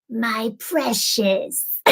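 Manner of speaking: very slow, drawn-out creepy creature; hushed, stretched-out creepy whine on each word. Acted. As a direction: draw it out slowly like a creepy creature. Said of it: "This really creepy voice".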